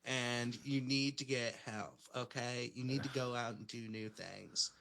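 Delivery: lightly voiced LA speak; LA life-coach talk, lightly done. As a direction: talk in mock LA self-help speak. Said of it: "go into full L A speak".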